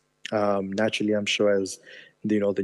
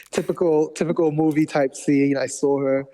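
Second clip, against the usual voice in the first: smiling, a little laugh slipping in; 5 semitones higher, 4 dB louder than usual. Real, not acted. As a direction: grin while telling it. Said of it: "you can probably hear the smile in my voice now".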